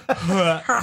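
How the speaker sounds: laughing through a mock disgusted "ah"; a laughing replay of the gasp; disgusted "ah" demo. Shown as a demonstration. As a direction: show the recoil, half laughing. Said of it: "like that".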